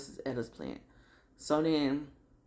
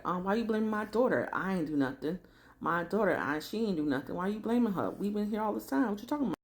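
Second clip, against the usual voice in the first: imitated mother's higher-pitched indignant protest; 5 semitones higher, faster than usual. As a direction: play a mama defending her daughter. Retold mother defending her daughter.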